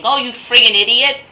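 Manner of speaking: mock indignant shout from a viewer; annoyed viewer. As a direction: snap at him like a know-it-all viewer. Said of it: "somebody out there is watching and saying".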